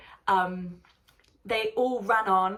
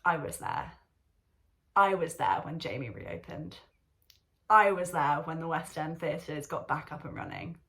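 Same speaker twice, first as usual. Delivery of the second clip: wistful future reflection; 4 semitones lower than usual. Retold or imitated. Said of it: "look back on in my life and think".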